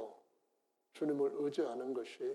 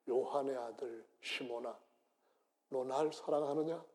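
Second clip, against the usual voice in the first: tender Jesus. Acted. Jesus gently asking Peter for his love. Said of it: "예수는 베드로한테 이렇게 말씀합니다".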